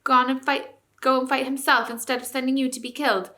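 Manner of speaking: high, loud mocking taunts; mock the retreating soldiers; jeering. A narrator's reading. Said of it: "the dwarfs began jeering at them".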